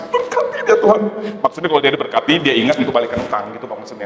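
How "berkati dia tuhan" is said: mock crying prayer. The lender prays for his debtor, hammed-up crying. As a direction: pretend to sob out the blessing. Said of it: "Sampai nangis".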